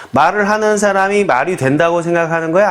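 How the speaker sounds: ordinary delivery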